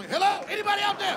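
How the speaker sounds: high-pitched call for anyone; acted helpless patient hollering. Patient calls from back room.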